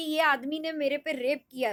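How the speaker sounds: normal talking voice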